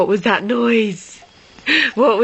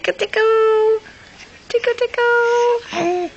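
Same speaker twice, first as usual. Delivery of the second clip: giggly tickle attack; 10 semitones higher than usual. Pretend. Tickling the baby.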